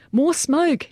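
high-pitched shouted order; urgent yell. A narrator's reading. Soldier calling for cover for the exposed men, high yell. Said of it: "Jager yelled to him".

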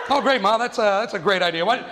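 mock her idea with scorn; sarcastic kid. Kid sarcastically berating mom.

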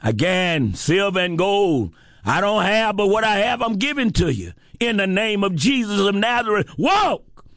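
rising to a shouted command to walk; Peter's command. Acted. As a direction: Peter healing the crippled man, building to a shout. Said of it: "Peter said".

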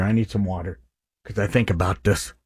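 holding back tears while speaking; choked up. Real, not acted. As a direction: voice thick with emotion, quiet. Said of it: "I'm choking up here".

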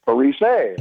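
Parise said "pa-ree-SAY"; French Canadian pronunciation. Retold or imitated. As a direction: end Parise on an AY sound. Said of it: "the French Canadian version".

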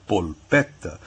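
polpetta with a clear L and held double T; Italian pronunciation. Shown as a demonstration. Professor repeats the word being asked about, Italian pronunciation. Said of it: "é assim que se diz em italiano".

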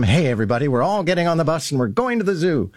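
lightly imitated cheery kindergarten teacher. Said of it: "she uses sort of the kindergarten teacher's voice and enthusiasm".

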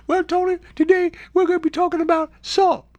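very high Bubba-like lady voice; high mock lady introducing her topic; imitated radio guest. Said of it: "That's how she sounded. Kinda like the guy with the shrimp".

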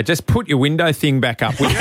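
curt bored hostie with a laugh; unfriendly flight attendant. Retold or imitated. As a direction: brush the passenger off, laughing. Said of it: "hostie that don't have a personality and they say".

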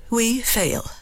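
indignant. Shown as a demonstration. Lady Macbeth indignantly answering her husband. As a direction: bristle at the very idea. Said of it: "Mm, indignant".

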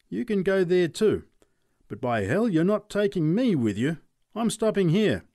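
high, loud panicky refusal; scared neighbour. Acted. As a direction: back out in a fluster. Charlie refuses again.

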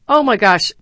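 a hammed-up gasp of disbelief, loud; mock student disbelief. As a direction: play the amazed student mocking a speech. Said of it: "thick that guy's Boston accent".

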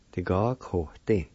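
Ti, ga, ko, tin said in steady, even beats; careful pronunciation. Shown as a demonstration. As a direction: repeat the word the way a teacher models it. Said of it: "is pronounced like this".

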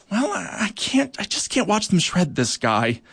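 high, breaking, insistent plea; insisting. A narrator's reading. Worker ant insisting she cannot watch Crickwing destroyed, urgent and high. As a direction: refuse with urgent conviction. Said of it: "insisted Eartha".

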